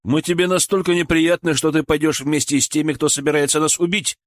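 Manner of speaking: негодующий мужской упрёк; спросить с нажимом, возмущаясь; возмущённо. Acted. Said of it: "возмутился Николай". (с возмущением)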